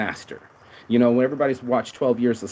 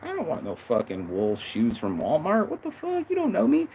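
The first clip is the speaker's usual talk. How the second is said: rising to a much higher exasperated pitch; ungrateful snap; 5 semitones higher than usual. Retold or imitated. Son rejecting mom's Christmas gift, bratty exasperation. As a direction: whine like a spoiled brat. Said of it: "I'm like".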